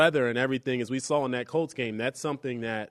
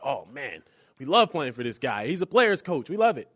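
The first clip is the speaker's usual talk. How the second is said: mock gushing players; 3 semitones higher, 4 dB louder than usual. Host mocking players who love their coach, hammed-up gushing. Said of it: "where the players are like".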